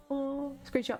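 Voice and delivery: high excited cry. Real, not acted. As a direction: squeal it out with delight. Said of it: "excited about game image".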